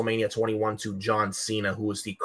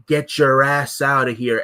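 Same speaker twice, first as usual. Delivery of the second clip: imitating a wrestler yelling, a bit louder; mock yell; 3 semitones higher, 5 dB louder than usual. Wrestler yelling at a fan, mock yell. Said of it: "Kurt Angle's yelling to this guy".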